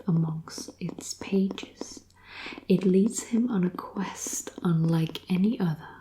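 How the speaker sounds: reading the back cover in a whisper; whispered blurb reading. Acted. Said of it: "I'll read the back for you".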